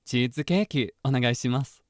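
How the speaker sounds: slightly brighter anime-character read; lightly voiced anime character ordering cheesecake; neutral seiyuu voicing. Shown as a demonstration. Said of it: "it would be more like".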